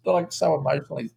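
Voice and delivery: high, hammed-up exhaustion; mock drained. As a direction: overplay the emotional fatigue. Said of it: "I said".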